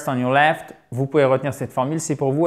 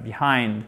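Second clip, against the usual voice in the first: "Behind" stressed on the second syllable; 4 semitones lower, 4 dB quieter than usual. Shown as a demonstration. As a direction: lean on the "hind" of "Behind". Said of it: "l'accent tonique sur la seconde syllabe". (« Behind » accentué sur la seconde syllabe)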